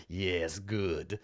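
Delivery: low, soft villain chuckle and gloat; understated smug villain, pitched low; arrogant villain. Acted. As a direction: quietly savour the victory. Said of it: "like, arrogant villain".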